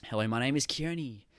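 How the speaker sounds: stiff rehearsed presenter voice; scripted speaker opening. Shown as a demonstration. Public speaker opening a talk, stiff scripted tone. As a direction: read it like a memorised intro. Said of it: "you have that".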